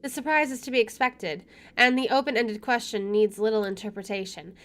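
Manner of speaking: measured first-person narration; story narration. Acted. Player reading the game's inner monologue, story narration. Reads game narration aloud.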